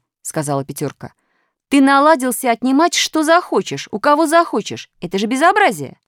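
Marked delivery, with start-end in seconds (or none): 1.7-6.0 high scolding. A narrator's reading. Пятёрка отчитывает Минуса.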